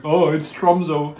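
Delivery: slow, high, loud evil clown voice; creepy clown. Retold or imitated. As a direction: draw it out like a sinister clown. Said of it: "sounds like an evil clown".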